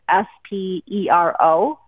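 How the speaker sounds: each letter said separately; spelling it out. Shown as a demonstration. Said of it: "and I'll spell it for you".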